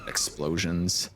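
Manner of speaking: slow hyped ad announcer; monster truck ad. Pretend. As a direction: drag out each word like an ad. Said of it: "cheesy monster truck ad".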